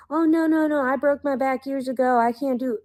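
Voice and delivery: hammed-up helpless mother; mocking whiny mother. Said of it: "And I'm like".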